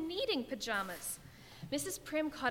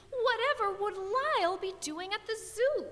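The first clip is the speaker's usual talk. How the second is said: miserable; 8 semitones higher, 3 dB louder than usual. A narrator's reading. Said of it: "Missus Prim exclaimed miserably".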